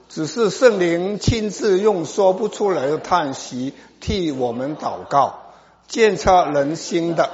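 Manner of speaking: measured, declaimed verse reading; scripture reading aloud. Real, not acted. Preacher leading the congregation through Romans, measured scripture reading. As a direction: read each phrase out firmly for all to follow.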